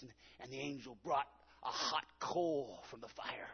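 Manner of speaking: hushed whisper; preacher hushing to retell the coal. Real, not acted. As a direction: lean in and whisper it. Preacher drops to a hush.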